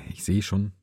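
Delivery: whispered aside to herself; breathy half-voiced aside; whispering. Real, not acted. Whispered aside during the game.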